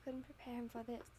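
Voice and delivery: steady storytelling read; story narration. Acted. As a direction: read it like an audiobook. Reads fanfic narration aloud.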